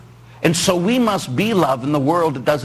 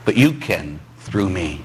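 humble prayer; 6 semitones lower than usual. Retold or imitated. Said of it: "get out of the way and say".

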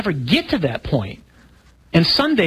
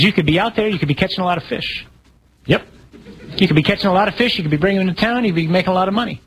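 higher, eager and fast, piling it on; pushy salesman pitch; 3 semitones higher, faster than usual. Retold or imitated. German tourist urging the idle fisherman, eager and fast. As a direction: sell him hard on the idea.

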